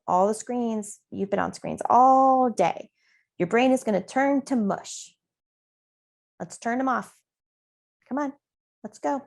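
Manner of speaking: put-on gently coaxing kids off screens; a friendly parent nudging toward nap time; nice parent demo. Shown as a demonstration. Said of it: "that was my first round".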